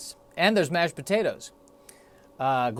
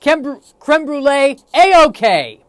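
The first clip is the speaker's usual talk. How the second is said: higher, fast, breezy bravado from the gut; cocky intestines; 4 semitones higher, 4 dB louder than usual. Retold or imitated. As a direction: voice the gut as an overconfident buddy. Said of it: "my intestines say".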